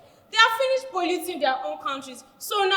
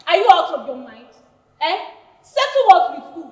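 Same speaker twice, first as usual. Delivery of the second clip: outraged; 3 semitones lower, 5 dB louder than usual. Acted. Outraged at settling it.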